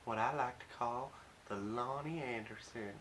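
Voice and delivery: attempted southern accent, loosely held; mock southern come-on. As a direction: playfully put on a southern lilt. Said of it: "I'm doing a southern accent".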